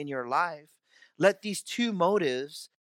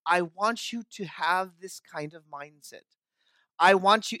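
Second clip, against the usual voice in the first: command voice. Retold or imitated. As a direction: give it like an order from above. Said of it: "he says it in a command voice".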